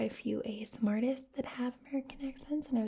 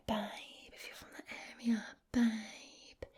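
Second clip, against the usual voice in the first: whispered Essex accent on "Babe"; a light Essex "babe" in a whisper. Shown as a demonstration. Host demonstrating Essex slang for viewers, whispered Essex accent. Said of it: "the Essex accent to say".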